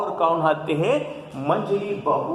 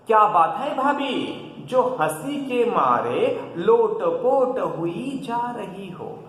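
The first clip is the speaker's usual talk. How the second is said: curious question; 5 semitones higher than usual. Acted. Indu questions laughing sister-in-law.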